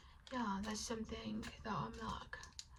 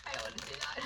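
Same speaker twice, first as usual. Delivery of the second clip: lower mock reluctance; 5 semitones lower, much faster than usual.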